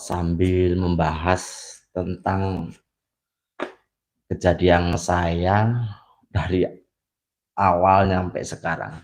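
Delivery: talking around a cigarette; words past a lit cigarette, slow; cigarette in mouth. Real, not acted. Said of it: "kita sambil ngerokok ya".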